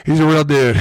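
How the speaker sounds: drawn-out mock hype; hammed-up admiration; mock praise. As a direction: talk him up, slow and high. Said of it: "I was like".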